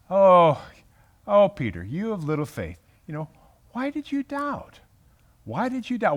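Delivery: gentle rebuke. Acted. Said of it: "it's a very gentle rebuke".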